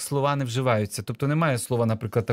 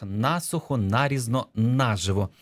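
насухо, нарізно, наживо each stressed on НА; stress on first syllable. Shown as a demonstration. Teacher listing parallel words, насухо, нарізно, наживо with stress on НА. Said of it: "робити наголос на першому складі".

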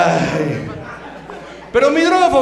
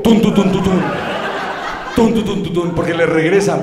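imitating the beat again; 4 semitones lower than usual. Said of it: the name of a band.

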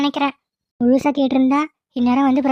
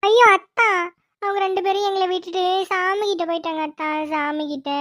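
performed crying; 2 semitones higher than usual. Pretend. Niece explains parents went to God, fake weeping. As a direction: start with a wail, trail away sobbing. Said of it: "நம்மளும் performance போடுவோம்".

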